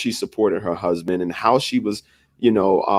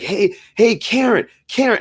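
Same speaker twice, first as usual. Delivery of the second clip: high-pitched mock shout of a name across the room; imitating a friend yelling across a restaurant; mock yell calling out; 12 semitones higher than usual. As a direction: call the name out high, like yelling to someone at the back.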